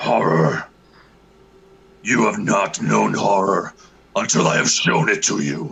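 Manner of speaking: very deep, low, sinister evil dragon voice. Told to pick good or evil, the speaker performs an evil dragon voice. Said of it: "best dragon voice".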